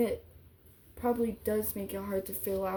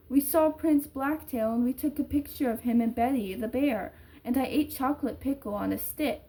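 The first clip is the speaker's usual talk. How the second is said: put-on little girl; 3 semitones higher, 6 dB louder than usual. Girl chatters to her dad over the phone, lightly voiced child. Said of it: "the tiny voice of a little girl".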